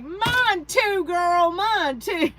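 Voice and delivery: put-on high, loud and drawn out, girlfriend to girlfriend; a friend eagerly agreeing about back pain, high and loud; mock excited agreement. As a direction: gush it back like chatting with a friend. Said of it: "And I'm like".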